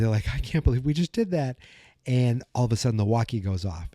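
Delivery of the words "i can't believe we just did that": high, quick retold thrill; exhilarated. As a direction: lightly imitate someone giddy after a getaway. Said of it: "they're exhilarated".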